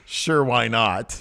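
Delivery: slow, drawn-out sure why not; lazy shrug of a line; slow deadpan quote. Retold or imitated. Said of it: "he does this again with his hands".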